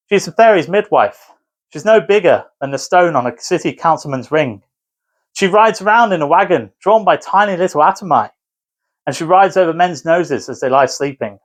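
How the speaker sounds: "She's a fairy's midwife" said as a bare fact; just stating facts, no bounce; flat, matter-of-fact reading; flat monotone. Shown as a demonstration. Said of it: "read with a flat monotone".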